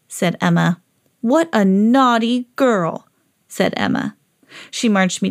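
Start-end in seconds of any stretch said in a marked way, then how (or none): 1.2-3.1 slow, mild telling-off; understated storybook reprimand; disappointed scolding. Acted. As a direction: draw out the reproach to a dog. Owner scolds disappointing dog.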